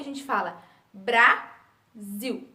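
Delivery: slow, open-mouthed "Brasil"; slow "Brasil" with the mouth wide open; clear model pronunciation. Shown as a demonstration. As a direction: say "Brasil" slowly and clearly for the class. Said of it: "Quando a gente abre a boca".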